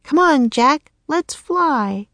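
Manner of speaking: put-on high, urging bird-girl voice; croaked. A narrator's reading. Annie urging Jack to fly, in a high croaking voice. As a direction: coax a friend along in a high voice. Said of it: "croaked Annie".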